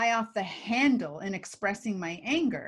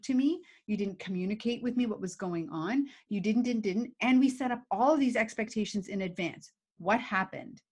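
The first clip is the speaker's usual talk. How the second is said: calm firm demo. Shown as a demonstration. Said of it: "I have to say".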